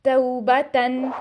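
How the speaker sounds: तौबतन drawn out slowly, ending n sounded; slow Quranic word recitation. Shown as a demonstration. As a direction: stretch तौबतन slowly syllable by syllable. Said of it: "एक word है".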